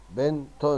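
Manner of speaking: "بنت" split as "bin... tun"; tanween damma ending. Shown as a demonstration. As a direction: sound out بنت in two beats. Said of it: "وانطق التنوين بالضم".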